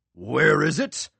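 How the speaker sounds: crowd shout. A narrator's reading. Audience member calling out, surprised shout. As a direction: blurt it out from the seats.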